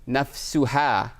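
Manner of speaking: "Ja'at Zainabu nafsuha" spoken very slowly, word by word; carefully paced Arabic demo; slow example sentence. Shown as a demonstration. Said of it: "if I said".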